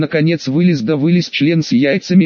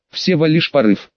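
plain reading voice

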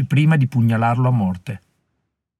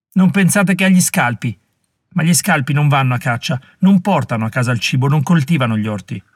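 put-on fierce young woman; 3 semitones higher than usual. Molly rebuking the warriors, fierce and scornful. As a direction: shame them for their greed.

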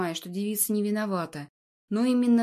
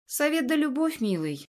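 snide sarcasm; 5 semitones higher than usual. Acted. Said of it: "замечаю я с ехидством".

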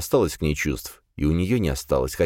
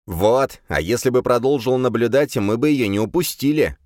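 loud, high complaining demon; whining demon; 6 semitones higher, 3 dB louder than usual. A narrator's reading. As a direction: wail it like a sulky demon. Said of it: "запричитал демон". (причитающий голос демона)

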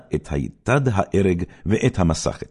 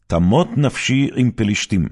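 loud, raised defiant vow; final cry; 5 semitones higher, 5 dB louder than usual. Acted. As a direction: cry it out as you bring the house down. (זעקה אחרונה ונחושה)

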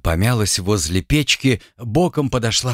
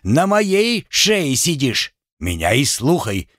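shouting husband; 3 semitones higher than usual. Acted. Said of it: "крикнул Александр".

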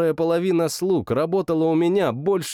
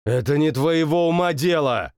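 barked. Acted. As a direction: snap the cook silent. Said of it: "рявкнул я".

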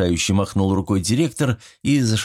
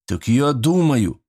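slow, deflated reply; dejected; 6 semitones higher, slower than usual. Acted. Scolded son answers his father, deflated. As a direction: let the air go out of him. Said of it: "совсем скис парень".

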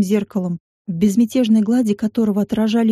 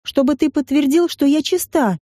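higher, teeth-chattering answer; 5 semitones higher than usual. Acted. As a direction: speak through chattering teeth. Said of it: "выстукивая зубами дробь".

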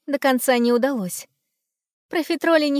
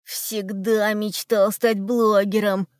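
joyful; slower than usual. Acted. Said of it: "радостно заявил Чипса Хруст".

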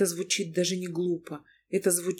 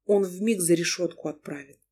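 ordinary delivery

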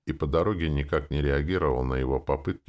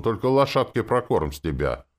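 louder, higher-pitched bargaining; exclaiming; 7 semitones higher, 5 dB louder than usual. A narrator's reading. Coachman asks passenger to feed the horse, exclaiming. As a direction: add a condition with eager energy. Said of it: "воскликнул он".

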